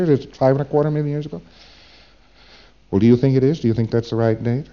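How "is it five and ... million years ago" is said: quick, rising, asking for approval; unsure question. Retold or imitated. Preclear really asking the meter for approval, quick and rising. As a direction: rush it out as an anxious query. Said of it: "See, they're saying".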